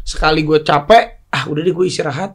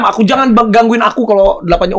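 imitating Nagita; 4 semitones higher than usual. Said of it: "Nagita tuh gitu".

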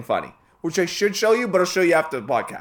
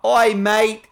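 mock Australian; 3 semitones higher, 3 dB louder than usual. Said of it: "they sound so happy when they talk".

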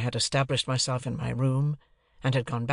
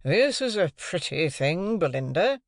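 despairing gentleman; 5 semitones higher, 3 dB louder, slower than usual. A narrator's reading. Mister Pocket in despair.

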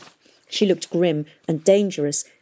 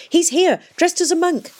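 alarmed cry; 11 semitones higher, 4 dB louder than usual. A narrator's reading. Tom breathlessly warns Miss Fang.

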